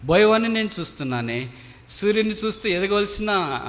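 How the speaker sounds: acted lament, pitch lifted on each phrase; regretful lament. Dying eagle to the hunter who shot it, regretful lament. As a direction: lament it in rising, repeated cries of regret. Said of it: "పశ్చాత్తాపడుతూ ఈ కన్నీళ్లు కారుస్తున్నాను".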